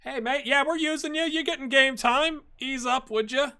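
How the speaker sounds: a hint of a reassuring manager; mock chat to a grumpy sub; talking to the player.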